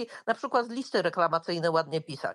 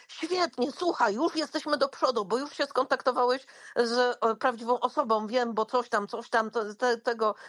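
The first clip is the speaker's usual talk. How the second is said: imitated uplifting encouragement; 2 semitones higher than usual. Chatbot cheering a user through a complaint, imitated encouragement. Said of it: "takie bardzo podnoszące na duchu rzeczy".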